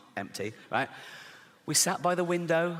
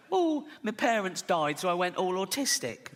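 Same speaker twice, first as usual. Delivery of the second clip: mock earnest confessional; 3 semitones higher than usual. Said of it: "Edinburgh Fringe type way".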